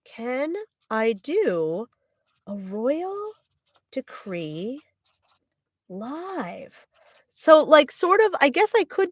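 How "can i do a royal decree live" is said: very slow, word by word with gaps; drawn-out, softening dictation to self; writing it down. Real, not acted. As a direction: sound it out slowly as you write. Writing the question down while saying it.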